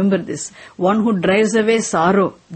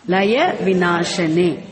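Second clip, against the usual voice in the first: slow, each syllable spelled out; patient teacher pronouncing for a class; slow model reading; 2 semitones lower, slower than usual. Shown as a demonstration. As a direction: model it slowly for students to repeat. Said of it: "Say it now".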